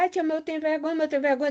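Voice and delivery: a hint of a small, embarrassed child's voice; shy pupil. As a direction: mildly imitate a bashful pupil pleading. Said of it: "tá muito intimidado ainda, a vozinha não sai".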